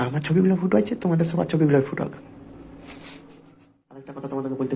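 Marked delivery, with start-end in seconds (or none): 0.1-2.1 mock curse.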